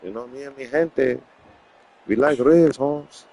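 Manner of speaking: put-on playful Chicano homeboy accent; mock Chicano street talk; Chicano vato.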